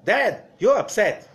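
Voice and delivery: put-on a child blaming the father; accusing child.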